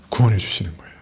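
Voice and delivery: a low, hushed revelation; whispered answer. Real, not acted.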